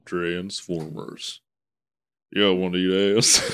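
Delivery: deadpan trailer announcer; movie trailer voice. Acted. Parody trailer tagline.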